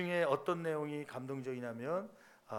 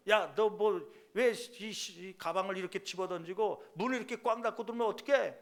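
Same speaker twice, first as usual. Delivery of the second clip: mock angry scolding, louder; a mother snapping at her kid in retelling; imitating an irritated mom's loud rebuke; 3 semitones higher, 4 dB louder than usual. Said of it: "막 혼내고 그러죠".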